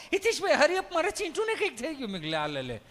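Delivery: shrill mock panic about the child; panicked mother. Mother crying to the comedian that her child is hurt, high frantic cry.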